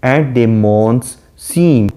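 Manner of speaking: slow, measured recitation of the verse; reading the poem. Shown as a demonstration. Teacher reciting the sonnet line slowly to students. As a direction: read the line out slowly to the class.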